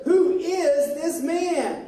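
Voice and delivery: slow, drawn-out question of amazement; amazed disciples. Acted. Teacher cues amazed disciples to say it together, slow wonder. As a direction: ask in wonder, word by word. Repeats amazed line for unison echo.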